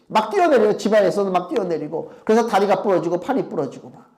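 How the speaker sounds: ordinary talk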